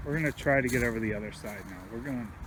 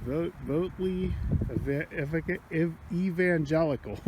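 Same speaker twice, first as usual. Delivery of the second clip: too cold to talk; 4 semitones higher than usual. Real, not acted. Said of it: "Sorry, I'm so cold I can't talk".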